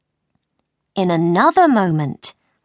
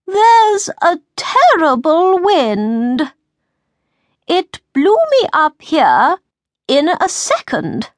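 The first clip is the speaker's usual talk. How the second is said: White Queen warning; 8 semitones higher, 4 dB louder than usual. Acted. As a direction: warn him urgently from above. Queen warns king of wind.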